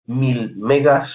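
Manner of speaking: mil megas drawn out very slowly, each word weighed; slow emphasis. Shown as a demonstration. Teacher stressing the storage fact to beginners, slowly. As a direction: spell out "mil megas" slowly so the class remembers it.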